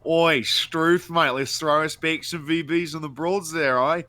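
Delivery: hammed-up Australian; Australian accent. Friend showing off Australian stereotypes, mock Australian accent. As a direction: lay on mock Aussie slang. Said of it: "like an Australian there".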